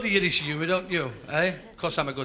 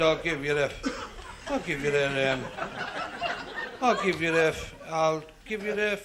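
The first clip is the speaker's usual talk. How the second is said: stuttering. Acted. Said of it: "stuttered very badly".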